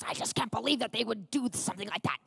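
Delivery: indignant imitation of a worked-up husband; put-on, worked-up grumbling; mock frustrated rant. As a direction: act out an exasperated complaint. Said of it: "frustrated and worked up".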